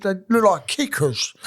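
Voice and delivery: lightly voiced hapless mate; imitating a workmate. New starter defending his shoes to a workmate, lightly imitated. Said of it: "this is how he talks".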